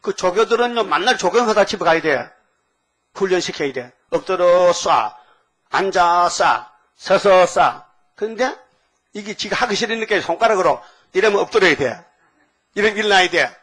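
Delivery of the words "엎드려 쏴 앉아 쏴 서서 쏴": slow barked firing-range commands; mock drill sergeant. Preacher mimics an army drill instructor shouting at recruits.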